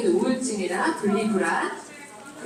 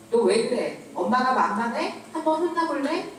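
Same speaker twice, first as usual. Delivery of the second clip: mild mock scolding, rising on the threat; a hint of an angry mother snapping at her son; retold yell at child; 3 semitones higher than usual. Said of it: "저도 소리를 꽥 질러버렸어요".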